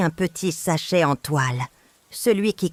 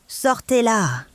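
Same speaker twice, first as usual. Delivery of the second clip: higher-pitched narrated yell, losing his cool; yelled order; 6 semitones higher, slower than usual. A narrator's reading. Son-in-law ordering the mother thrown out, higher yelled command. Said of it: "a hurlé Antoine en perdant tout sang-froid".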